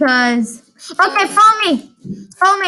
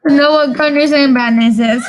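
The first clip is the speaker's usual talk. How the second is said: laughing; 3 dB louder than usual. Real, not acted. Laughs while speaking.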